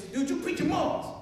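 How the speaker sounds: high, quick fan outburst; excited fan. Acted. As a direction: gush at a comic you recognize. Excited fan quizzes the comedian.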